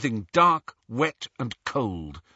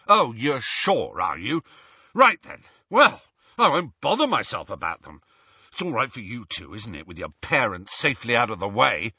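sarcastic sneer. Acted. Ron sneering at them.

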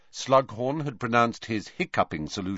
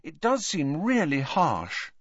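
soothing; 7 semitones higher than usual. Acted. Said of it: "said Hermione soothingly".

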